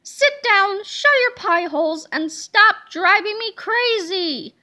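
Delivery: slow exasperated classroom scold; strict teacher yelling. Acted. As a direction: bark it like a fed-up teacher. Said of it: "what she called the three S's".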